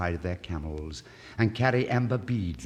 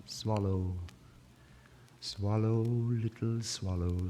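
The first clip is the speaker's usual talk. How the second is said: tender plea; 3 semitones higher, slower than usual. Acted. Prince's repeated plea.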